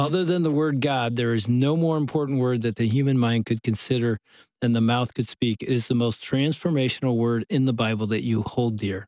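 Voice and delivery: ordinary talk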